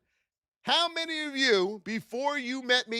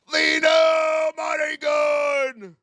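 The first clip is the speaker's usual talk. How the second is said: hype shout-out; 6 semitones higher, 5 dB louder, much slower than usual. Real, not acted. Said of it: "shout-out to gift".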